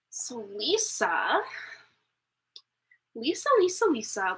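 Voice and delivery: playful singsong name calling. Real, not acted. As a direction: sing the name out, teasing. Calling donor to post question.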